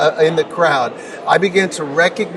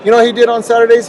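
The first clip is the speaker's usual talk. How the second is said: emphatic rhetorical question; 6 semitones higher, 5 dB louder, much faster than usual. Real, not acted.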